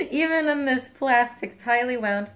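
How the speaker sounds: high loud amazed exclaim; excited. Real, not acted. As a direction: marvel at the strong smell. Smell striking through packaging.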